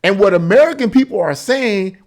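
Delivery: ordinary delivery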